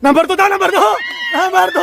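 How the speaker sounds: high, urgent number call; excited shout. Real, not acted. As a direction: call it out across the game. Relaying the number to the player. (pasigaw na pagtawag ng numero)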